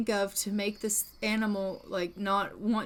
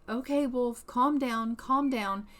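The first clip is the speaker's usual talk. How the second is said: coaxing an animal, slightly raised pitch; anxious soothing; 3 semitones higher than usual. Acted. Frightened woman to the wolf, anxious soothing. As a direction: try to settle a threatening creature.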